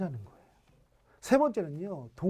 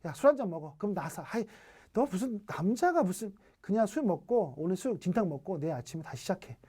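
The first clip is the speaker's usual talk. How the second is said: dismissive cutoff. Retold or imitated. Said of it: "한 방에 딱 자르기예요".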